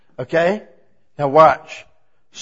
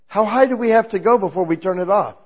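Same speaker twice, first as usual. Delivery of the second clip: lightly laughing, a bit higher; laughing question; 4 semitones higher, 4 dB louder than usual. Retold or imitated. Man retelling his quip to his pastor, laughing lightly. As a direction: ask through a chuckle. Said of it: "and I said".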